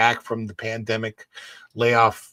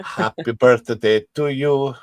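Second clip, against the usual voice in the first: slow, half-hearted Italian-accented birthday wish; 4 dB louder, slower than usual. Shown as a demonstration. Host attempting a birthday request for Sonic, Italian accent. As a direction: try it slowly in a put-on Italian accent. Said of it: "I can sing in an Italian accent".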